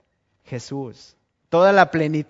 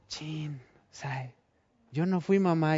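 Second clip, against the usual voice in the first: much softer, guilty little denial; caught child; 7 dB quieter than usual. Retold or imitated. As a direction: mumble it like a kid caught in the act.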